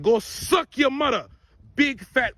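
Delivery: slow, drawn-out mock insult; retold fighting words. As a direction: imitate a man starting a fight, stretching each word. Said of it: "them fighting words".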